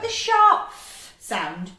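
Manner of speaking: short, sharp f sound. Shown as a demonstration. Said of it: "you don't spend ages going f".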